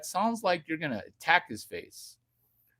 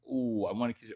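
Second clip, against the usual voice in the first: gentle kiss demo; 5 semitones lower, 5 dB quieter, much faster than usual. Shown as a demonstration. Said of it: "This is how to kiss".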